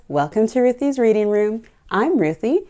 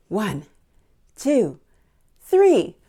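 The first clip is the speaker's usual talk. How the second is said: building countdown; much slower than usual. Real, not acted. Counting down with the kids.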